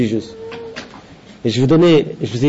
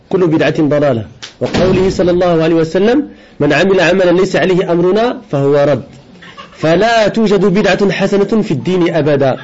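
formal Arabic text reading; 3 semitones higher, faster than usual. Acted. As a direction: recite a scholarly Arabic text at a brisk, fluent pace. Reads the Arabic text aloud.

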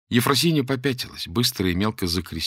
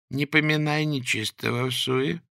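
put-on slow, calm old woman's rebuke; unruffled old woman; 5 semitones higher than usual. The old beggar calmly rebukes the threatening man, unruffled. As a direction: calmly chide him like a pious old woman. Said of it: "сказала Ефросинья невозмутимо".

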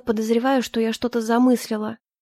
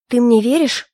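твёрдо и громче, по-командирски; требует ответа без колебаний; командирский голос; 5 dB louder than usual. Acted. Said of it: "твёрдым командирским голосом". (героиня приказным тоном спрашивает Олю: твёрдый громкий командирский голос)

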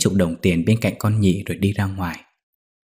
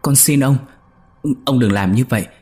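higher, louder terrified begging; stammering plea, voice pitched up in fear; frightened pleading; 5 semitones higher, 5 dB louder than usual. Acted. Young maid begging the master to stop, frightened and high. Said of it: "Con Nhị kêu lên".

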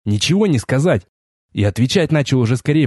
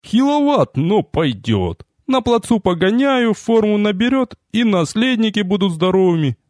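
a strongwoman judging a recruit, pitched higher; booming princess; 7 semitones higher than usual. A narrator's reading. Princess sizing up the elf as a husband, booming. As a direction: boom it out like a drill sergeant in a dress. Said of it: "громыхнула".

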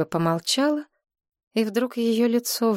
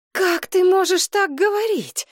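a mild moan; 12 semitones higher, 4 dB louder than usual. A narrator's reading. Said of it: "простонала мать".

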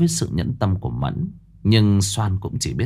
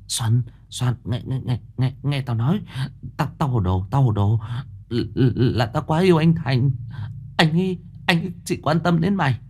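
stuttering, rising higher with nerves; scrambling to explain; flustered stammer; 6 semitones higher than usual. A narrator's reading. Mẫn caught out, stammering flustered excuses to Soan. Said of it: "Mẫn luống cuống".

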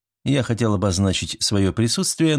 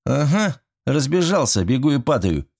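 sarcastic; 7 semitones higher than usual. A narrator's reading. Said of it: "съязвил ещё кто-то".

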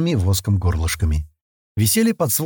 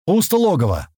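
booming call; 6 semitones higher than usual. A narrator's reading. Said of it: "раздался зычный голос".

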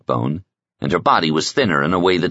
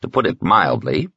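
slightly raised, lightly characterised medic voice; lightly voiced Raven, professional; 3 semitones higher than usual. Medic comparing two cryo patients, professional. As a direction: lightly play a medic giving an assessment.

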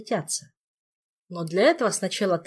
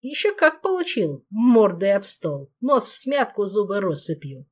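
gleeful; 3 semitones higher, 5 dB louder than usual. Acted. Ghost gleefully describes beating.

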